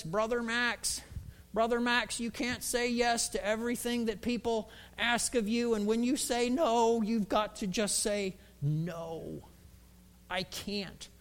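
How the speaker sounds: raspy mentor voice; Lyle. Acted. Old mentor advising Brother Max, raspy. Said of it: "had this kind of raspy voice".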